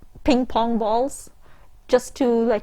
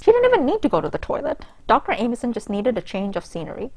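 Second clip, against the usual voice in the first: story reading; 2 semitones higher, faster than usual. A narrator's reading. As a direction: read the steamy passage with mock drama. Reading the erotic story aloud.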